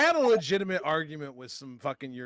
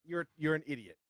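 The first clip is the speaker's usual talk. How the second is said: retold insult; 4 semitones higher than usual. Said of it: "Gave up there at the end".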